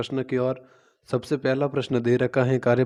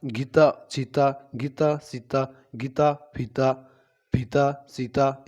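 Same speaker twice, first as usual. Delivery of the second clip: each word said on its own with a lift at the end; teacher drills गीता, चीता, सीता with a rise on each word; rhyming word drill; slower than usual. Shown as a demonstration. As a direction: chant the rhyming words one by one to show the same ending sound. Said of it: "जैसे हम बोलते हैं सीता".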